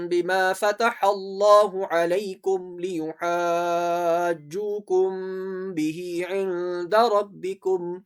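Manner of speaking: slow, measured tajweed chant; Quran recitation. Shown as a demonstration. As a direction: recite slowly, holding the long vowels. Teacher recites the verse. (ٹھہر ٹھہر کر قرآن کی تلاوت)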